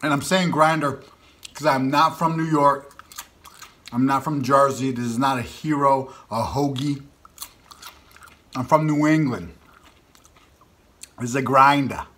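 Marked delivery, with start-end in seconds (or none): 4.2-12.1 eating between words; talking while chewing. Real, not acted. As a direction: mouth partly full of food. Seen 0: Keeps putting red filling pieces to mouth, lips moving while talking.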